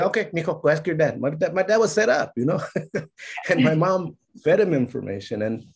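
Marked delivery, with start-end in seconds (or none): 0.1-1.2 high sugary mom voice; sweet mom. Retold or imitated. Mom sending her son to ask dad, sugary. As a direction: coax the boy sweetly, setting dad up.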